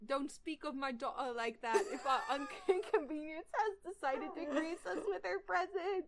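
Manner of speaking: put-on British accent cracking into laughter; bad British accent. Reading Draco's line aloud, failing British accent breaking into laughs. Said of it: "I just can't do a British accent".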